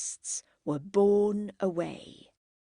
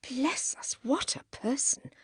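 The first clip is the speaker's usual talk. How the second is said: higher-pitched sighing exclamation; sighed; 6 semitones higher than usual. A narrator's reading. Margaret despairs of the drunken woman, sighing. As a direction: let it out on a mild sigh. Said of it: "sighed Margaret".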